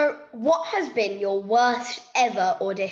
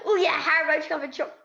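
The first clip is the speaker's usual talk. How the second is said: laughing quote; 3 semitones higher, much faster than usual. Retold or imitated. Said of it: "they were like".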